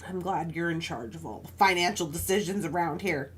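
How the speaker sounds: low, deadpan sarcastic retort; dry sarcasm. Retold or imitated. Wife to husband over his messy paperwork, dryly sarcastic. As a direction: drop the pitch and feign approval.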